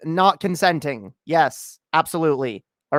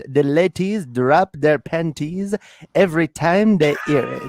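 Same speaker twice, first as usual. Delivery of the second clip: sexy voice. Pretend. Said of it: "due to my sexy voice".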